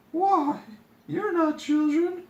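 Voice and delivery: high, loud surprised princess; high startled princess realizing. Acted.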